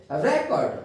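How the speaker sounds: रिकॉर्ड said as REK-ord, weight up front; stress on first syllable. Shown as a demonstration. Teacher modelling the noun, रिकॉर्ड with first-syllable stress. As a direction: stress the opening of रिकॉर्ड, let the end fall. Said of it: "आपको अपनी आवाज़ को उठाना".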